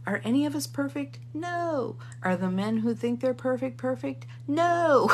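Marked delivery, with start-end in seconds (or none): 1.3-2.0 high, drawn-out "no"; emphatic no. Real, not acted. Speaker answering whether she is perfect, emphatic high no. Answering own rhetorical question. 4.5-5.1 loud, high, drawn-out "no"; emphatic no. Real, not acted. Speaker answering whether men are perfect, loud emphatic no. Climax of rhetorical questions.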